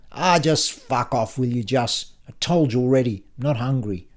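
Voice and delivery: mild, irritated yell; abrupt yell. Acted. Tsar snaps at Justine over eating, a mild yell. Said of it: "Abruptly, Tsar yells".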